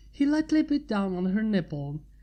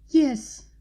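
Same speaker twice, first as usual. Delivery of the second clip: loud, higher moaning yes; moaned yes; 4 semitones higher, 6 dB louder than usual. A narrator's reading. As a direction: let the yes break out as a moan. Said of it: "she moaned".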